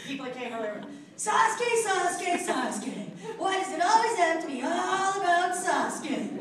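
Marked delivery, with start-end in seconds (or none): 1.2-6.3 high, loud whining about Sasuke; Naruto whining line. Pretend. Repeating a line for fans, high and loud whining. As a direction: whine the name over and over. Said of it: "I said it to some people".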